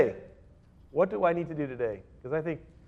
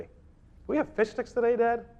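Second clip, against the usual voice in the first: put-on begging child; 7 semitones higher than usual. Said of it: "If you go to your father and you say".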